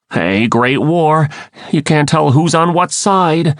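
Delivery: high-pitched, restrained shouted complaint; mild yell. A narrator's reading. Marco objects to the Lyran controllers' attack, mildly yelling. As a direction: raise the pitch and call out in protest. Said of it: "Marco yelled".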